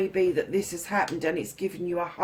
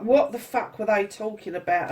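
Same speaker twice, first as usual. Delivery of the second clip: puzzled what-the-fuck. Acted. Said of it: "kind of like an in-between what the fuck".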